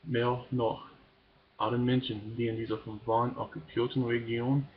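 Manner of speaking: measured, earnest poem reading; deliberate recital of a political poem; poem recitation. Acted. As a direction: read it out phrase by phrase, pausing at line breaks. Reads a poem aloud.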